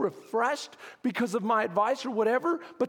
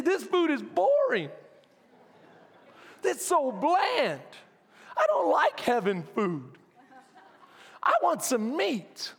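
whiny complaining; 4 semitones higher than usual. Retold or imitated. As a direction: whine like a spoiled crowd wanting steak. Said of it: "They're constantly complaining".

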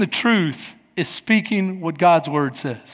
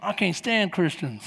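sulky grumble; 3 semitones lower, 4 dB quieter, slower than usual. Retold or imitated. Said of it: "You're like".

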